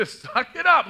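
slow, loud mock "suck it up"; mock smug dismissal. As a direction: tease like an arrogant pastor. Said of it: "pastors ego".

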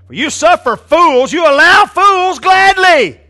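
sarcasm building high and loud, then dropping off slowly; mock-praise them, drawn out; sarcastic. Preacher reading Paul's jab at the church, sarcastic. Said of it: "You hear the sarcasm".

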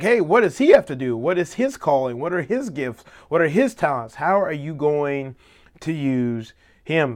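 mock indignant questioning; pestering questions. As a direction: quote a disciple demanding to know about someone else. Acting out Peter's nosy questioning.

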